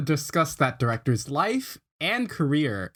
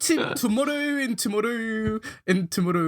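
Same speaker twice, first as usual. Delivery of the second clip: a hint of a Scottish accent, somewhat higher; mock Scottish accent; 7 semitones higher than usual. Host attempting the soliloquy for his co-hosts in a light mock Scottish accent. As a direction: try a Scottish-accented soliloquy, half-joking. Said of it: "Eli's closer accent-wise".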